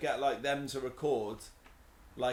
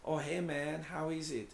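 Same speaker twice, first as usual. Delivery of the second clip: Hawaiian accent; 4 dB quieter than usual. Shown as a demonstration. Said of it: "How do they speak?".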